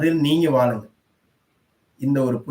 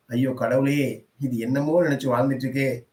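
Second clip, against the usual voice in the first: pitying sigh. Retold or imitated. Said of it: "பரிதாபப்படுங்க, கருணைப்படுங்க".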